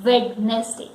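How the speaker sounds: WEDNESDAY as WED-nes-day, D sounded; wrong pronunciation. Shown as a demonstration. Teacher introducing the weekday in wrong pronunciation. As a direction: say WEDNESDAY in three syllables as spelt. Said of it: "It is not Wednesday".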